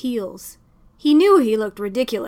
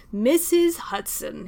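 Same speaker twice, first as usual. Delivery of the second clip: slow, drawn-out gushing greeting; overdone cheerful welcome at the door; slower than usual. Acted. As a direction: lay the warmth on thick. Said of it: "he practically gushed".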